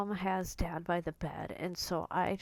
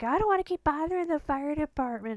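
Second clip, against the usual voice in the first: high, loud, quick imitation of a protesting mother; exasperated refusal, retold; 8 semitones higher, 6 dB louder, faster than usual. Retells mother refusing, arguing.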